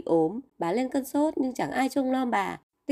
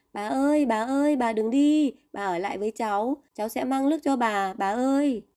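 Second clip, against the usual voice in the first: mildly raised, pleading call after grandma; panicked crying out. Acted. Boy calls his grandmother turning into a bird, mild panicked pleading. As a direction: call her back in a light panic. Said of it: "Tích Chu hoảng quá kêu lên".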